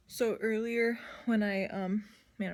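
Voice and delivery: breathless; winded, catching breath. Real, not acted. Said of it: "I'm out of breath".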